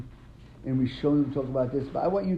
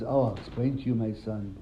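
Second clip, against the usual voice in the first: nicely; 4 semitones lower, 4 dB quieter than usual. Retold or imitated. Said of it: "Hillel answers nicely".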